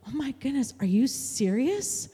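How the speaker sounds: incredulous, voice lifting at first; retold disbelief. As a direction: imitate a stunned mom, drawing out the question. Crying mother's disbelief retold.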